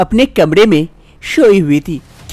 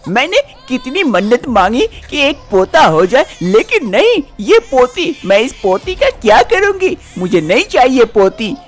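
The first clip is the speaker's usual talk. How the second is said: angry; 5 semitones higher than usual. Acted. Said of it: "काफी गुस्सा आ जाता है".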